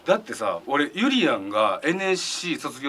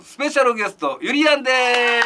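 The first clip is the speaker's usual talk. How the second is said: higher-pitched guest announcement, last word drawn up; announcer introduction; 8 semitones higher, 3 dB louder than usual. Real, not acted. Host introducing the anniversary special guest, rising announcer call. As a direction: present the guest like a show host.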